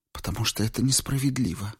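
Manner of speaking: plain reading voice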